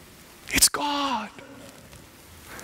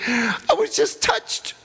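put-on girl's voice; 11 semitones higher, slower than usual. Preacher voicing a girl touched by his talk, high and slow. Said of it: "She said".

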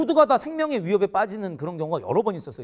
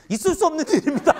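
stiff military answer; 7 semitones higher, 4 dB louder than usual. Retold or imitated. Private answering senior's question.

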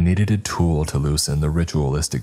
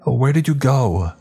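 calling wife; 8 semitones higher than usual. Acted. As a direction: call out high, searching for him.

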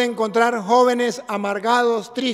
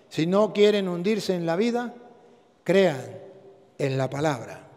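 solemn low; 4 semitones lower, 5 dB quieter than usual. Acted. Solemn climax of advice.

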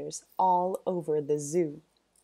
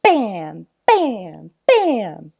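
loud, rising thwacks; punchy sound effects; 13 dB louder, much slower than usual. A narrator's reading. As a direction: smack each word out.

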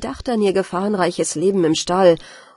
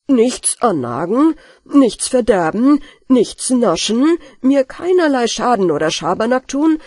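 louder, stern listing of conditions; stern demand; 4 semitones higher, 4 dB louder than usual. Acted. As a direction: lay down the rules firmly. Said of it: "Also fragte er".

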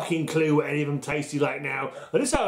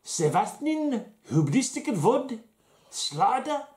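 mock Slovenian accent; 3 semitones higher than usual. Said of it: "let's put on my best Slovenian accent".

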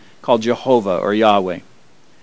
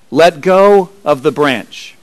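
slow voice of God; 2 semitones higher, slower than usual. Acted. God's answer, slowly.

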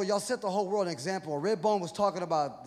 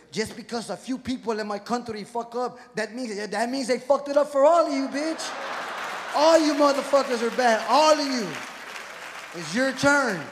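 angry yelling man; 4 dB louder than usual. Acted. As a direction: shout it at the whole room, outraged. Acting the Pakistani man yelling.

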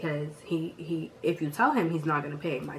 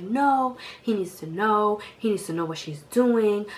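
mom's voice; 4 semitones higher, 4 dB louder than usual. Retold or imitated. Mom voiced insisting in story.

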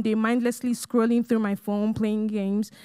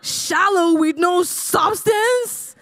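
slow, higher, laughing disbelief; incredulous; 6 semitones higher, 3 dB louder, much slower than usual. Retold or imitated. Shocked reply to God.

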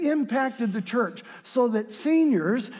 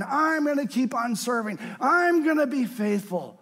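preaching at full force; 3 semitones higher than usual. Acted. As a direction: pour out the old psalmist's prayer. Voices the old psalmist's prayer.

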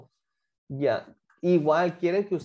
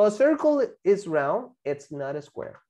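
slow model sentence; slower than usual. Shown as a demonstration.

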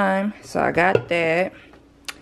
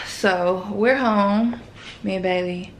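panting after carrying groceries; out of breath, talking between breaths; 2 semitones higher, 4 dB quieter than usual. Real, not acted. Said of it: "Sorry, y'all, I'm out of breath".

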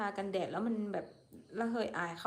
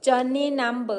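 very slow, louder, sounding out foreign words; drawn out English; 4 semitones higher, 8 dB louder, much slower than usual. Real, not acted. Streamer spelling out strange English to viewers, very slowly. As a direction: stretch each English word out carefully.

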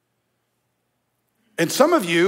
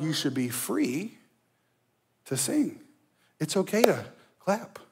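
hushed and soft; 7 dB quieter than usual. Real, not acted. Preacher hushes.

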